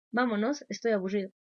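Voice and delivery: un poco agudo, quejándose; niño quejoso. Retold or imitated. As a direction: imita al hijo que quiere irse. Hijo pide irse de la fiesta. (niño quejoso en el cumpleaños)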